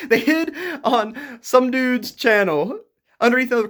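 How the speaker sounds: high, laughing disbelief; words squeezed out through a high laugh; laughing while talking. Real, not acted.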